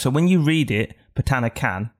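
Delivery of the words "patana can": Patana can with a hard K on "can". Shown as a demonstration. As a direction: read Patana can as spelt in English, K sounded. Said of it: "you say it with a hard K".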